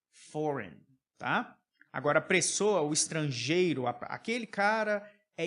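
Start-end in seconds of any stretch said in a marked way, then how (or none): 0.1-0.8 "Foreign" said as "foren", falling; silent G. Shown as a demonstration. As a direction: say Foreign without its G. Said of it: "A gente praticamente não pronuncia".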